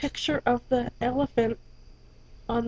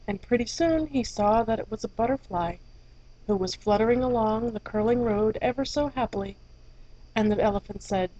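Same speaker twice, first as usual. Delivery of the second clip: gentle storybook reading voice; story narration; 4 dB quieter than usual. A narrator's reading. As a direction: read it like a bedtime story. Reads fairy tale aloud.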